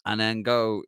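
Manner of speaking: hammed-up Dublin accent, starting high and easing down; thickest Dublin accent. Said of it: "in the thickest Dublin accent".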